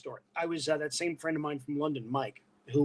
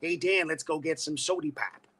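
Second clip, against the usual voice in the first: put-on Detroit accent. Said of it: "John is from Detroit".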